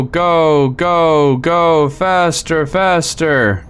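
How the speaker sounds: on a roller coaster. Real, not acted. Fleeing the exploding sun in-game.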